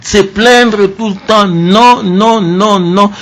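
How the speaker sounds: high, insistent no-no-no; emphatic refusal. Real, not acted. Host scolding youth who always complain, emphatic and high. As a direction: brush off the complaining firmly.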